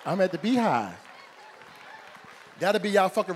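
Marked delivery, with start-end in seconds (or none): 0.0-1.0 hammed-up mourner who can barely speak; grieving cousin. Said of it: "They'll be walking around like".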